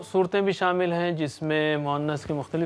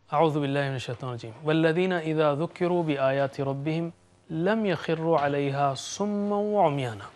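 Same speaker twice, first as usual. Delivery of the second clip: Quran recitation. Acted. Teacher quoting a verse to the class, devotional recitation.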